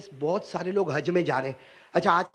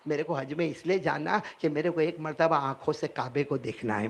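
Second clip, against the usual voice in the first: tearful; 3 semitones lower, 3 dB quieter than usual. Acted. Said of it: "روتے روتے کہا".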